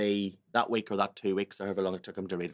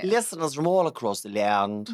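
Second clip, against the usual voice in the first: put-on posh accent; 3 semitones higher, 4 dB louder than usual. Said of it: "that's very plummy".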